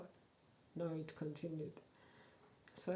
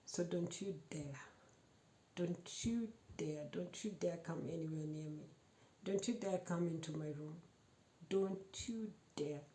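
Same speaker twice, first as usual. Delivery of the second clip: quiet menace. Retold or imitated. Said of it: "I was very bold".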